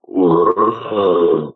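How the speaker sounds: low imitated roaring howl, lightly done; half-hearted roar imitation; mock roar. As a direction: mimic the tail of a roar. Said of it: "it went down to a roar".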